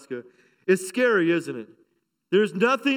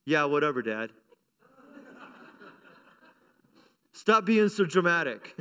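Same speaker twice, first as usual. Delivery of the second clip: dismissive daughter; 4 semitones lower than usual. Retold or imitated. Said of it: "in her loving, compassionate way".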